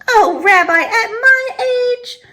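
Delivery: put-on old woman blushing at a lick; flustered surprise. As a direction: sound embarrassed and flattered.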